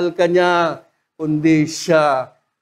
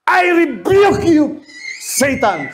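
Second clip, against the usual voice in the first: a slow, raised stern rebuke; lightly voiced Jesus rebuking; angry rebuke; 8 semitones higher, slower than usual. Jesus rebuking Peter, acted with a slow raised voice. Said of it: "Galit siya nun".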